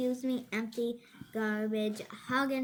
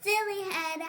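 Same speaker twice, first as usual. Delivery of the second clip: taunting name-calling; 9 semitones higher, 5 dB louder than usual. Acted. Child voicing cubs' name-calling.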